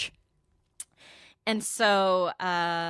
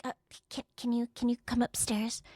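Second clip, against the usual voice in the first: timid stammer; 4 semitones higher, 4 dB quieter than usual. Retold or imitated. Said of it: "like a little baby bitch".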